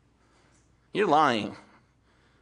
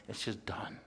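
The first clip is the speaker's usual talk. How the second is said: barely voiced, softer whisper; whispered release; 7 semitones lower, 15 dB quieter than usual. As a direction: let "just done" fall away in a whisper. Closing the forgiveness thought.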